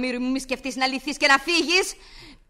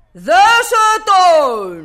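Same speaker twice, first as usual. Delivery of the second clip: slow, louder stern command; slow commanding order; 4 semitones higher, 7 dB louder, much slower than usual. Acted. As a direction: lay down the order word by word. Mistress repeats order.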